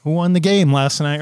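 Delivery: change the subject fast, embarrassed; flustered backpedal. Retold or imitated. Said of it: "all of a sudden we're like".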